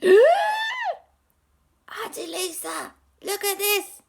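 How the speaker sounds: high startled call; startled huh. Acted. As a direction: jolt up high, shocked. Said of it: "he went".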